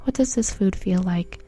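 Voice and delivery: measured, evenly paced mindfulness guide; guided meditation. Acted. Guiding a listener through eating food mindfully, guided meditation voice. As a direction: lead them through it calmly, pausing between phrases.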